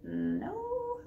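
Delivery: put-on high little boy voice; child voice. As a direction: answer in a small kid's voice. Boy answers pirate.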